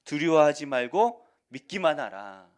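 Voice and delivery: slow, full-voiced reading; loud congregational reading. Real, not acted. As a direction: read out loud together, slow. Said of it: "함께 읽겠습니다. 시작".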